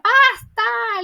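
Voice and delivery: high, loud cry of BASTA; imitated shout. Melek to her father in the study, an imitated shout. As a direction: act out a sudden yelled cut-off. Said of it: "le grita".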